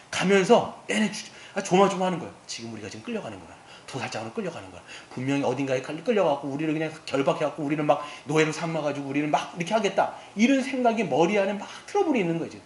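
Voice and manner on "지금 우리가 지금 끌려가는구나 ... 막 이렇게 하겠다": hushed, fast anxious muttering; fearful rush. Retold or imitated. Brothers fearing slavery as they're led in, hushed and hurried. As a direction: rush it under your breath in dread.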